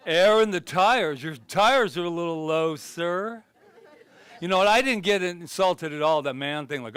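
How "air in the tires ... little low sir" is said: lightly acted full-service attendant. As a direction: call it out helpfully to a customer. Voices a service station attendant.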